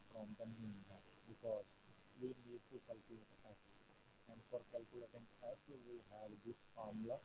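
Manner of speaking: barely audible. Real, not acted. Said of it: "sir, आपकी आवाज बहुत कम आ रही है।".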